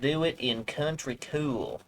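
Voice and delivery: slow, lightly drawled country twang; a hint of a Southern country accent on the slogan. Shown as a demonstration. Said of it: "that's me doing my twang".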